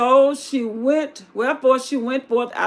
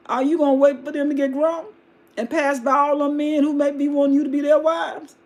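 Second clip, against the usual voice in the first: exasperated Naomi shout; 4 semitones higher than usual. Acted. Naomi shouting at her daughters-in-law, exasperated. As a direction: demand it of them, fed up.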